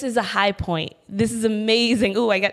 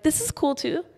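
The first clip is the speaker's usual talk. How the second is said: self pep talk; 6 semitones higher than usual. Acted. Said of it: "give yourself a pep talk and be like".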